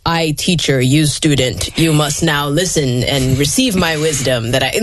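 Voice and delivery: lightly voiced lecturing teacher; mock the stiff teacher who talks down to a student; authority voice. A hint of a preachy teacher lecturing a child. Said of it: "that was my authority voice".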